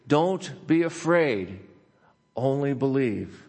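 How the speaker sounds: slowed, tender promise; gentle reassurance. Acted. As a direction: comfort a frightened listener. Pastor reading God's comfort aloud.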